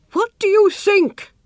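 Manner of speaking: high, excited queen voice; a mother bursting with news; eager queen. Acted. Queen to her son, high and eager.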